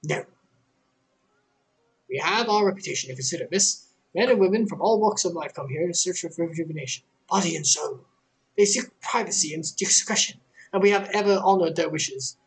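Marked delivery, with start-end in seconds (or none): 2.1-12.4 lightly voiced courteous innkeeper turning them away; apologetic but firm, rushing the policy; a receptionist politely declining to name patrons; polite refusal.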